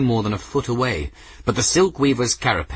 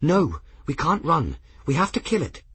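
hard and vicious; 7 semitones higher than usual. A narrator's reading. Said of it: "in a hard, vicious voice".

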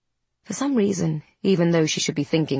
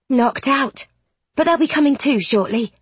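proud; 7 semitones higher than usual. A narrator's reading. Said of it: "a note of pride in her voice".

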